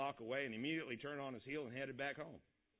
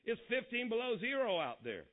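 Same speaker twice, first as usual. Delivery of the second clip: loud, higher, exasperated outburst; thundering father; 9 semitones higher, 5 dB louder than usual. A narrator's reading. Father balks at going out in the cold, thundering loudly. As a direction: boom it out at the idea of going out. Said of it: "Father thundered".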